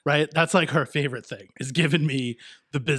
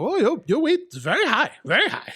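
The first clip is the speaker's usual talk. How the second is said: high, mocking thick Asian accent; 10 semitones higher, 4 dB louder than usual. Podcaster quoting his doctor on his weight, high thick Asian accent. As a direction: do the doctor's thick Asian accent, much higher than your own. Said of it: "I'm gonna do the accent".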